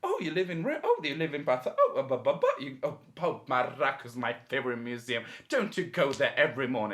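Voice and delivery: high, loud, gushing with laughter; gushing excitement. Retold or imitated. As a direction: mimic a gushing art lover, laughing. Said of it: "there's like".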